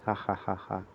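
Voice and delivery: low, soft, measured "ha ha ha"; understated mock villain laugh; villain's laugh. Villain laughs before threatening Shark.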